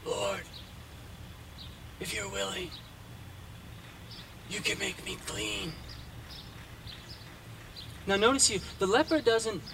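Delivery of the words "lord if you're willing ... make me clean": soft, humble request; humble plea. Retold or imitated. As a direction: ask gently, much softer, in faith. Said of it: "he asks humbly and sincerely".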